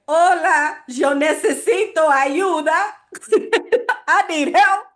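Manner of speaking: playing her own desperate tourist self; laughing broken-Spanish plea; mock pleading. Her plea to taxi drivers.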